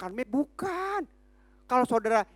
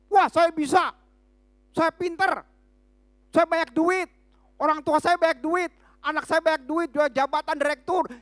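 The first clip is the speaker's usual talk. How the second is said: mock boast, louder and higher; arrogant boaster; 4 semitones higher, 4 dB louder than usual. Preacher mocking a proud Christian bragging, louder. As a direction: brag like a proud rich man.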